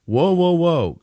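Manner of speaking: high-pitched, easygoing interjection; casual protest. A narrator's reading. Fiancé calming an angry mother, casual. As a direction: lightly tell someone to back off. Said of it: "Chris said casually".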